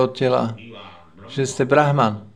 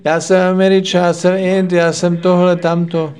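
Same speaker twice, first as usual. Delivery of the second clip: higher and louder, yapping the claims like dogs; mocking barking boast; 3 semitones higher, 3 dB louder than usual. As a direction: bark out each nationality in mock pride. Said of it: "štěkat jako psi". (posměšně štěkavě, výš a hlasitěji)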